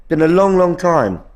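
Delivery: talking through hiccups. Real, not acted. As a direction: hiccups breaking up the words. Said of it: "Sorry, I'm hiccuping".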